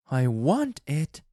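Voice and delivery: a hint of a pleading wife; wife's quiet demand. A narrator's reading. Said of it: "she said quietly".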